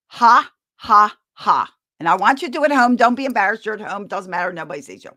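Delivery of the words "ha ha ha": loud forced "Ha, ha, ha" pushed out from the belly; fake laugh demo. Shown as a demonstration. Teaching parents the fake-laugh exercise, loud forced laughter. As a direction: bark out three big fake laughs. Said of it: "push our hands forward three times and go".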